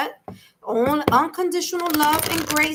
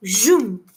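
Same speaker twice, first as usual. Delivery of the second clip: imitated zoom; 3 semitones lower, 5 dB louder than usual. Imitates messages rushing in quickly.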